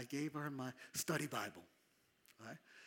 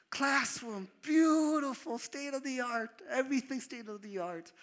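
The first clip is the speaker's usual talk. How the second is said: awed gushing; 10 semitones higher, 7 dB louder than usual. Retold or imitated. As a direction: sell every room like a wonder. Awed tour of fancy church.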